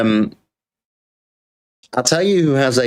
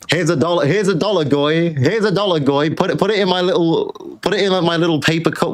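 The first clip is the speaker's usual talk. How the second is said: higher mocking voice; mock donor; 6 semitones higher than usual. Streamer mimics a viewer tipping a dollar, mocking. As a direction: sneer it like a smug tipper.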